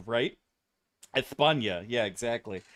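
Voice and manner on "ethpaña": España with a lisped th for the s; Castilian lisp. Retold or imitated. Streamer imitating teacher's Spanish, Castilian lisp. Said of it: "so she had the lisp".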